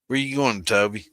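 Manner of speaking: loud call across the room. Real, not acted. Streamer calling out to Toby who's leaving. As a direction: raise your voice to call Toby back.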